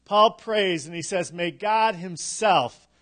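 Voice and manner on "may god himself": "himself" given extra weight; stress on himself. Shown as a demonstration. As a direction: lean on the second half of "himself". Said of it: "The emphasis is on himself".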